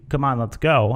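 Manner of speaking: casual nudge to get moving; urging to leave. Shown as a demonstration. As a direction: round someone up to go. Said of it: "Let's leave now".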